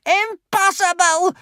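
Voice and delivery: slow, high witch hiss. A narrator's reading. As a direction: spit it in disbelief. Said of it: "hissed the witch".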